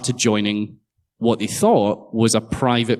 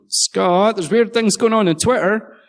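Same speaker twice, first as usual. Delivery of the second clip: mild mock shout; 9 semitones higher than usual. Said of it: "my wife shouted at me from the bedroom".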